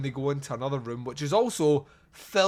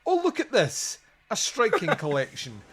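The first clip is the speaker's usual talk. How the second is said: mock sarcastic delight, pitched high; American sarcasm; 6 semitones higher than usual. David Duke admiring the clock collection, sarcastic. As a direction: gush with dry American irony. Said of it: "full of that American sarcasm".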